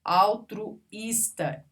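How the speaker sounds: "Altruísta" slowly as altru, pause, ísta; split syllables. Shown as a demonstration. Teacher isolating the accented syllable, slow split. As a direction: pause before the stressed "ís" in "Altruísta".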